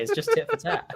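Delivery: laughing through the words; giggling while speaking. Real, not acted. Laughing at a joke.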